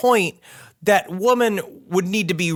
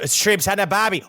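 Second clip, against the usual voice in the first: shaky attempt at an Australian accent; lightly put-on, botched Australian accent; bad Australian accent; 3 semitones higher than usual. Comic showing how to pose as the ghost, bad Australian accent. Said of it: "Australian accent, being like".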